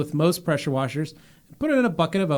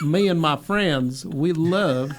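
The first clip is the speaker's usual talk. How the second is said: mock Southern accent. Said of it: "That is not even remotely it".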